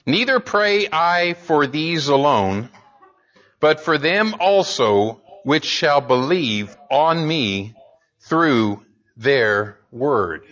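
slow, grave reading of a scary verse; solemn scripture reading. Acted. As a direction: let the verse land slowly and gravely. Scripture read in sermon.

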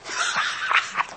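breathy, hushed chuckle of derision; derisive laugh. Acted. Preacher acting God laughing at rebellious rulers, derisive chuckle. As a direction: act out a scornful, quiet laugh. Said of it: "He that sitteth in the heavens shall laugh".

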